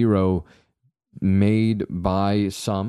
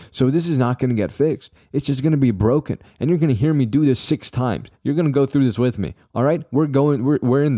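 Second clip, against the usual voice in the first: mild mock yell; 5 semitones higher than usual. Real, not acted. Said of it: "Sorry I yelled at you".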